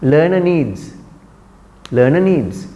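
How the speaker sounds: LEARNER NEEDS with a short weak end on LEARNER; correct short vowel. Shown as a demonstration. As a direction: model LEARNER NEEDS, schwa kept brief. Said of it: "Short a sound is there".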